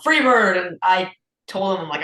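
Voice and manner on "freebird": raised, louder mock heckle; imitated yell. Dude at an acoustic show requesting a song, imitated yell. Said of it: "and the dude yelled".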